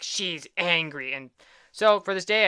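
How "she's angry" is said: slow, drawn-out mimicry of a child; imitated little niece. Niece insisting about her drawing, imitated in a drawn-out voice. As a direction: drag out the words like the insistent niece. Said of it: "She's like".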